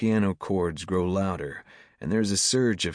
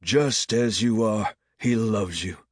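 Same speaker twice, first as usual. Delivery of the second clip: preacher's shout; 3 semitones higher, 3 dB louder than usual. A narrator's reading. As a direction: call it out, stretching the words. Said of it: "he shouts".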